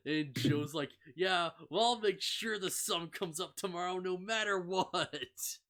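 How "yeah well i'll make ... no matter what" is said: raised, emphatic boast in a retold quote; hammed-up resolve, pitched up; mock heroic vow. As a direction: play a big brash promise for laughs. Retells Joe's bold vow.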